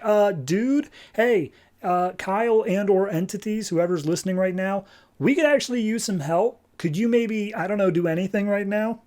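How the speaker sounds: unsure, awkwardly asking for help; nervous pleading. Retold or imitated. Hal and Carol plead with Kyle.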